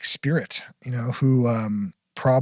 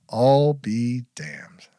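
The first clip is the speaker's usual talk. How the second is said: very slow, drawn-out amazement; hushed, slow astonishment; retold stunned disbelief; much slower than usual. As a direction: stretch each word as dad taking it in. Retells dad stunned by the book.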